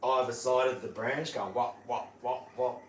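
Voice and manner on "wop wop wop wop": evenly spaced knocking wops; rhythmic, percussive wop sounds; imitated beak banging. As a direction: mimic a beak hitting a branch. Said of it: "banging it".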